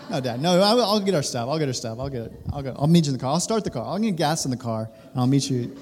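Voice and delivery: lightly imitated son scrambling to help; eager compliance tumbling out in short repeated bursts; super obedient son. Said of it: "obedient mode".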